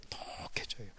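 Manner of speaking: low unvoiced whisper. 독하게 속삭이듯. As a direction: hiss it like venom.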